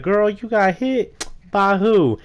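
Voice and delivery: high, slow mock shocked girlfriend; shocked friend. Friend on the phone hearing of the crash, high mock shock. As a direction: squeal it like a stunned gossiping friend. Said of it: "The girl, she was like".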